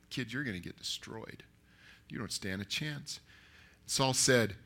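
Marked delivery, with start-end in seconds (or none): 0.1-3.2 softer, low-key aside; saying to himself. Acted. Saul doubting the kid to himself, quiet aside. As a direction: drop the volume as if privately doubting. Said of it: "he's probably saying to himself".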